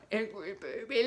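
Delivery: scrunch up small and go soft; tiny scrunched angry baby. Shown as a demonstration. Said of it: "super small like an angry baby".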